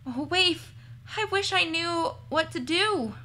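a touch of fretting, pitch lifting as worry grows; lightly voiced worried Carmen. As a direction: think aloud anxiously to a companion. Voices Carmen talking to her dog.

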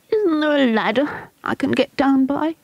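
put-on high desperate boy's plea. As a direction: beg for a way down. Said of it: "he said desperately".

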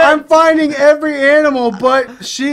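high, loud frustrated yell back; exasperated shout. Real, not acted. Player defending the failed sheep hunt, exasperated shout. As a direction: shout your defence over the nagging.

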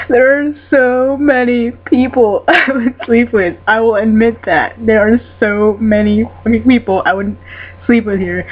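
worked-up fangirl gushing, starting high; overexcited fan outburst; fangirl rage. Real, not acted. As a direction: gush emphatically, leaning on SO many. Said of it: "Sorry, fangirl rage".

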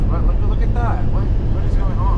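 loud, high, startled exclaiming; surprised. Real, not acted. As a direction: blurt it out in disbelief. Sees a strange long truck line.

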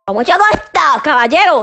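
irritated parroting of a singer's phrase; cross mocking echo. Mother scolding son for his nonsense, mocking. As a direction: throw the catchphrase back, annoyed.

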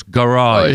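"garage" as guh-RAHZH, imitated attempt at American. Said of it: "do it again".

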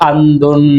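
అందున్ with the last n held; final n shown. Shown as a demonstration. Teacher giving hidden-sunna example, అందున్ with held final n. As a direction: say అందున్, lingering on the closing n. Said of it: "ఇక్కడ పలికే".

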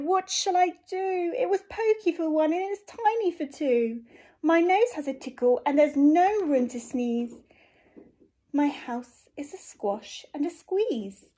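put-on high, loud fretful old lady; distressed old lady. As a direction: wail about the cramped house. Lady cries out in dismay.

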